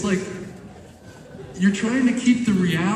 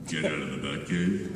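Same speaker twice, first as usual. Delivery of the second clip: ironic take; 10 semitones lower, 9 dB quieter than usual. Shown as a demonstration. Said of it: "Could we do a little irony?".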